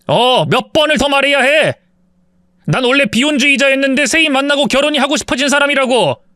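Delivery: heated yelling. A narrator's reading. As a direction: yell at her to stop insulting.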